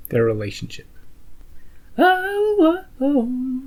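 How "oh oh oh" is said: excited. Real, not acted. Reacting to a dramatic moment.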